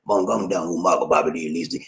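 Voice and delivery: low imitation voice greeting in Tagalog; John Thomas. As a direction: sink the pitch, softening at the end. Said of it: "I got John Thomas".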